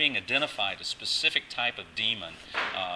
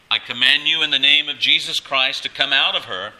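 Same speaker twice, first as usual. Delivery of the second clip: loud, higher, forceful rebuke; annoyed command; 5 semitones higher, 11 dB louder than usual. Retold or imitated. Paul, greatly annoyed, commanding the spirit, forceful. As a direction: order it out firmly and loudly. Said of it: "having become greatly annoyed".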